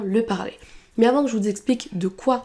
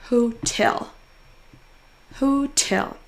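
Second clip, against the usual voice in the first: TEL in "Hotel" stressed and held; stressed syllable drawn out; much slower than usual. Shown as a demonstration. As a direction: lean on the last syllable of "Hotel". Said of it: "en prononçant plus fort la syllabe". (dernière syllabe de « Hotel » appuyée)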